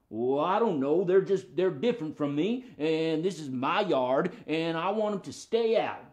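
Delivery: lightly voiced stubborn dog; defensive puppet dog. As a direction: justify guarding the yard as a dog.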